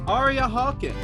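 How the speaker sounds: ordinary delivery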